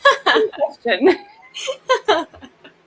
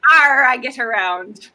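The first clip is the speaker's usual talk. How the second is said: joking pirate "Arr"; bad pirate voice. Pirate with a Baby Yoda mug, joking pirate voice. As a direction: lightly play the well-travelled pirate. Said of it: "I just don't have a good pirate voice".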